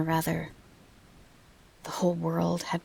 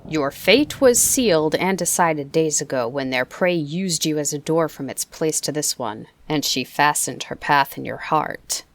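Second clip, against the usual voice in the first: louder, cold South African persuasion; sharp South African accent; 7 dB louder than usual. Acted. Opal miner urging the boy to surrender, louder South African accent. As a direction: coax him to give up in a South African accent. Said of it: "he said".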